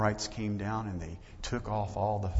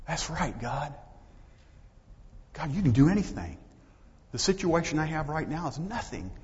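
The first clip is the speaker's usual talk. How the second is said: higher, acted fervent prayer; renewed faith; 4 semitones higher than usual. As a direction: declare your trust to God. Acts David's renewed trust in God.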